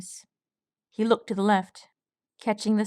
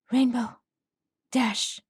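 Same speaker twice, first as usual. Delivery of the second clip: panicked shout; 4 semitones higher, slower than usual. Acted. Panicked colt calling out.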